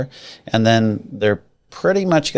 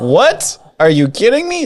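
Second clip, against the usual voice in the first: hammed-up disbelief, pitched higher and louder; mock surprise; 11 semitones higher, 4 dB louder than usual. Host hams up disbelief at rising refinance applications. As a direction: play it like you can't believe the news.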